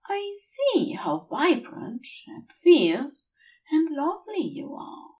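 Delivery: an angel choking up as he thanks his friend; tearful Aziraphale. Acted.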